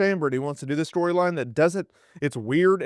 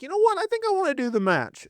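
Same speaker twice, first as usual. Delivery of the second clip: much higher, mocking whiny voice; mock Dwayne; 14 semitones higher, faster than usual. Host mocking Dwayne's sudden wish to wrestle, high mocking voice. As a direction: lampoon him with a high sneering pitch. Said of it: "Uncle Dwayne's like".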